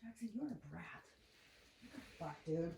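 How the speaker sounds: yelling at a puppy from a distance; scolding the puppy. Real, not acted. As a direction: tell the dog off, exasperated.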